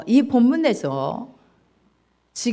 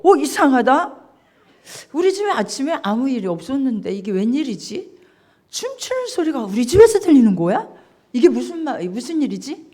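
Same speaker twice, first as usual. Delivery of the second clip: puzzled; 3 semitones higher, 3 dB louder, faster than usual. Acted. Elder son puzzled at the noise.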